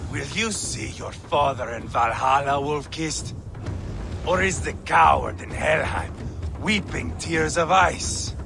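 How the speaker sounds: low, measured goading; needling taunt. Acted. Needling opponent about dead father.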